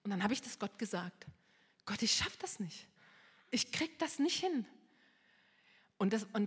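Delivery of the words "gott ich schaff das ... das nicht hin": whispered prayer. Retold or imitated. Retold broken prayer.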